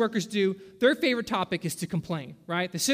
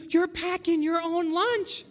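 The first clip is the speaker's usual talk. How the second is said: God's retort; 9 semitones higher, slower than usual. Acted. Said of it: "God's looking at us and goes".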